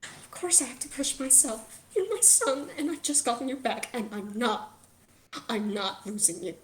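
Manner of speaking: tearful mother finding her resolve; weepy, then resolute. Acted. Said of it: "very sad and weepy ... still weepy".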